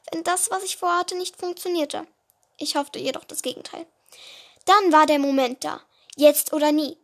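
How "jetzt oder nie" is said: determined. Acted. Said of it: "dachte ich".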